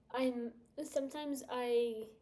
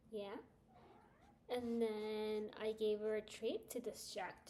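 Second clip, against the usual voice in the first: soft talk to dog; 6 dB quieter than usual. Real, not acted. Talking softly to her dog.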